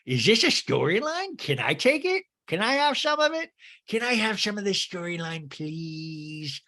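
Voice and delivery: high, pleading mock voice; whiny high mock plea. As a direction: beg like a greedy child. Mocking Rinna's plea.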